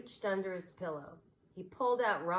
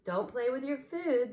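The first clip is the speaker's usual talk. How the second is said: higher, louder mother spaniel scolding; mother dog; 6 semitones higher, 5 dB louder than usual. A narrator's reading. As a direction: correct the pups. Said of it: "told her three children".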